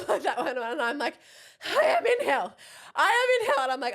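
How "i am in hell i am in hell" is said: high, loud despairing cry; hammed-up overwhelmed yell; exasperated wail. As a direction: wail it in mock agony. Overwhelmed by chaos.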